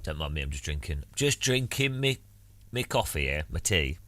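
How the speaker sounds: put-on Northern English accent, chatty; Northern English streamer voice over a cuppa. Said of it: "Don't know what accent it is".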